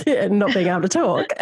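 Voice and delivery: talking through real laughter, pitch jumping up; laughing through tears. Real, not acted. Telling the interviewer she can now talk while laughing. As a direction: laugh as the words tumble out. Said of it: "I actually started laughing".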